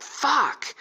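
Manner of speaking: high, sudden mock-furious curse; retold angry outburst. Friend throwing his phone, mock angry outburst.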